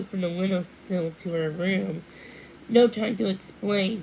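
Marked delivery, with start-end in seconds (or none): 2.7-4.0 rushed, louder blurt. A narrator's reading. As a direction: spill it out in a hurry. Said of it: "he blurted".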